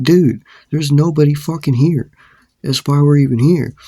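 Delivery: re-enacted indignant comeback; exasperated retort. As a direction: argue back in acted exasperation. Acted retort in quarrel.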